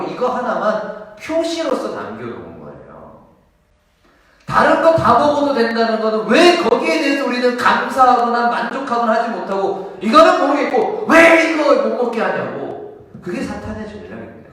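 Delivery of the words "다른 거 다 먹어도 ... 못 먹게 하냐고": loud, higher impassioned preaching; full-force preaching. Acted. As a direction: drive the point home to the congregation. 강하게 설교함. (목소리를 높여 열정적으로 설교)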